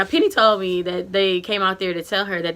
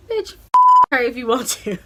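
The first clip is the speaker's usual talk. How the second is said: friend voice; 4 semitones higher than usual. Retold or imitated. Friend's look voiced as quote.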